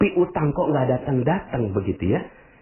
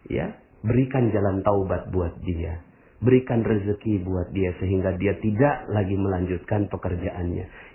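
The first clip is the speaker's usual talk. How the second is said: quiet prayer; 5 semitones lower than usual. Shown as a demonstration. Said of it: "Gimana cara mendoakannya?".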